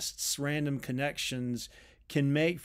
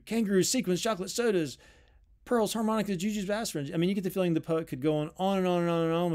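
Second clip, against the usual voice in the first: higher, rattled-off breathless-style list; overexcited list; 5 semitones higher, 3 dB louder, faster than usual. Shown as a demonstration. Lecturer contrasting the poet's crazy lists with rocks, overexcited rush. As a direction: reel it off fast and high, as if unstoppable.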